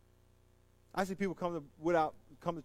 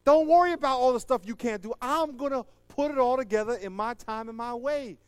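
voicing God; 7 semitones higher, 6 dB louder than usual. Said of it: "And God said".

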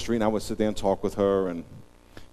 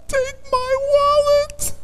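melted reply; 8 dB louder, much slower than usual. Retold or imitated.

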